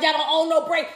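a hint of a dismissive white woman, spoken not shouted; lightly mocking white woman. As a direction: quote her offhand, at speaking level. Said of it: "the white woman gonna get in there talking about".

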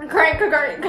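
jokey stammer; mock stutter. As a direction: fake a stutter on crank. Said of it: "I have a stutter".

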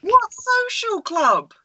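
high, incredulous outburst; scandalised, drawn-out questioning; freaking out. Real, not acted. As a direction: seize on it in high-pitched disbelief. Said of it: "Rhea was freaking out".

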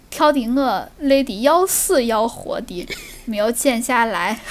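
slow Shaanxi dialect, short chunks; slow Shaanxi speech, a few words at a time; Shaanxi accent. Shown as a demonstration. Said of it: "反正就是陕西".

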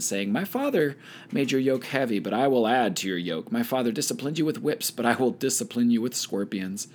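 measured Bible read-aloud with lifted phrase openings; scripture reading. A narrator's reading. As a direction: read the passage aloud to a study group. Reads Bible passage aloud.

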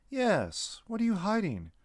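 high, pressing accusation; insistent demand. Acted. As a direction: push hard for the truth. Lucas confronts the creature.

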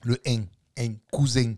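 «hein» et «cousin» avec la finale nasale fermée en «-eng»; finale marseillaise. Shown as a demonstration. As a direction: appuie le g à la fin de «cousin». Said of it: "en marseillais avec l'accent". (démonstration de l'accent marseillais sur «cousin»)

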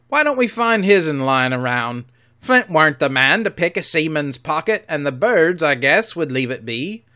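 a wary deckhand wondering aloud; loud rough pirate. Acted. Another pirate speaks.

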